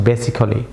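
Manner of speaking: basically with the a sounded, ba-si-co-li; wrong pronunciation. Shown as a demonstration. Teacher contrasts the wrong basically with the right one. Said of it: "not basically".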